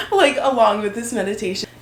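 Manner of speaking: talking through a real laugh. Real, not acted. Vlogger introduces a meditation to viewers, laughing. Still laughing as she continues.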